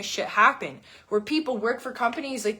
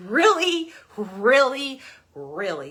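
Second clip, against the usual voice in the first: incredulous mock disbelief; slower than usual. Mocking repeat dieters.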